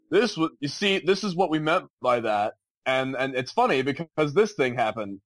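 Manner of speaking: lightly imitated comedian explaining his joke; Seth MacFarlane impression. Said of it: "You did a really good Seth Far".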